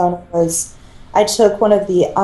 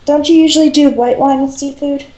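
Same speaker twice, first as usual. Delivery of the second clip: lively teasing; 8 semitones higher, 3 dB louder than usual. Real, not acted. Teasing question, raised.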